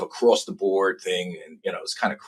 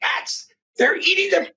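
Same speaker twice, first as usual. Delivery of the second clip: Trump shouting impression. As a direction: belt it out like Trump at the debate. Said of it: "I hear him go".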